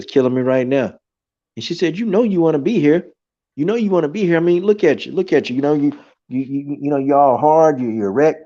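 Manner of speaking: high-pitched teasing woman's voice; imitating a woman luring him in; tempting woman. Seductive woman voiced in story.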